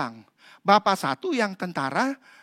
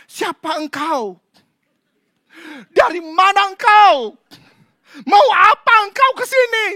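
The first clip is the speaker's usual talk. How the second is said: interrogating exorcist; 12 semitones higher, 13 dB louder than usual. Retold or imitated. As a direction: demand the demon's name. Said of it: "mengadakan conversation". (pengusir setan menginterogasi dengan lantang)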